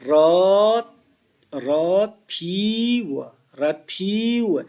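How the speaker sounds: र, र, थी, व said apart and slowly, each given equal time; syllable by syllable. Shown as a demonstration. Teacher showing equal timing of र and व to students. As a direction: spell out रथीव syllable by syllable, evenly. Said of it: "र का उच्चारण में भी वही समय लगेगा".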